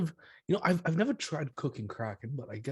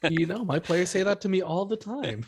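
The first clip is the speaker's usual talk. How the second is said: higher-pitched, laughing admission; 6 semitones higher, 3 dB louder than usual. Real, not acted. Game master whose players tease about mumbling, laughing. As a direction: protest good-naturedly through a laugh.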